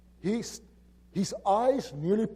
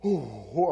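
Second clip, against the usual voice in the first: imitated dismayed gasp; 4 semitones lower, 5 dB louder than usual. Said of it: "he goes like this".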